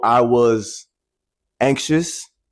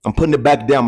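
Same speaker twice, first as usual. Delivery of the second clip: voice cracking; 4 dB louder, faster than usual. Real, not acted. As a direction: voice cracks as it gets louder. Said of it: "My voice cracking".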